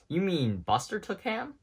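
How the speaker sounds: high, anxious question; worried dinosaur. A narrator's reading. Rex fearing Buster took Ham, high worried voice. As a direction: fret that the dog took him.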